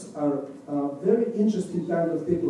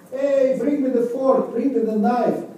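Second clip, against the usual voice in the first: calling to friends; 5 semitones higher, 3 dB louder than usual. Acted. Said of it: "he's asking his friends".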